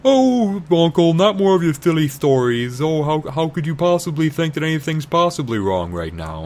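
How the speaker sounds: high, mocking dismissive falsetto; a hammed-up high sneering girl; condescending Leia. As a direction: brush off the old man sweetly. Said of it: "Leia's like".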